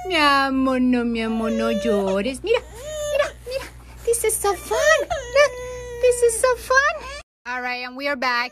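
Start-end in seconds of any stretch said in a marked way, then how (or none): 2.4-7.2 high sing-song coaxing; cheerful coaxing. Real, not acted. Mom trying to cheer up her crying baby, high and sing-song. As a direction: sell the fun to cheer him up.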